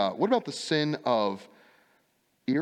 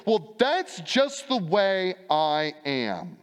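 mock excuse; 4 semitones higher, 4 dB louder, much slower than usual. Excuse voiced by preacher.

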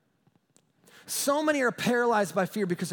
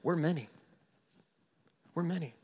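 hushed menace, understated; intimidating demon; 3 semitones lower, 5 dB quieter than usual. Acted. Demons try to intimidate Jesus, quiet mild menace. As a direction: lightly voice a demon's quiet threat. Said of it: "trying to intimidate Jesus by saying".

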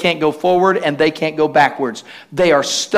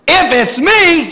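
high, slow mock disbelief; incredulous echo; 11 semitones higher, 5 dB louder, slower than usual. Jesus echoing doubting Peter, incredulous. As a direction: throw it back, stretched and indignant.

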